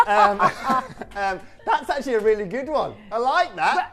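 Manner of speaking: high, breaking into giggles; amused, laugh-filled voice; laughing speech. Real, not acted. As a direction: talk while still tickled by the joke. Recovering from laughing at joke.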